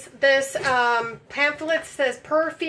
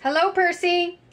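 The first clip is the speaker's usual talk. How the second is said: high, sing-song hello; high pet talk; 4 semitones higher than usual. Pretend. Testing whether toy cat Percy answers, high pet talk. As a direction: call a kitty in a raised voice.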